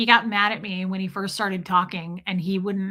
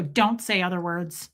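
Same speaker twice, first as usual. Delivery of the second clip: lower, measured imitation of a defiant kid; unanimated toddler defiance; 4 semitones lower than usual. Small son to mom who said his name, low understated defiance. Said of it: "He wasn't super animated".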